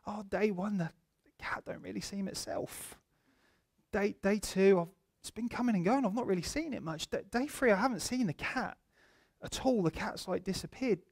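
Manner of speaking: soft, halting breaking of bad news; gentle, pastoral. Pastor showing his assistant how to break news, gently. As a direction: ease into it quietly, with careful pauses. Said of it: "in a more pastoral, loving way".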